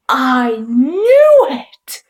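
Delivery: breathy whisper, slow and hushed; whispered exclamation. Retold or imitated. Storyteller whispering the boy's discovery, hushed. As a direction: whisper it like a secret triumph. Narrator recalls his reaction.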